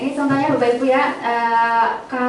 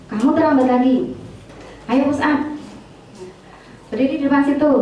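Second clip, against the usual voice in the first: mildly raised, scolding teacher voice; stern scolding; faster than usual. Shown as a demonstration. Teacher scolding a late student, mildly raised and stern. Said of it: "Itu nadanya tinggi ya".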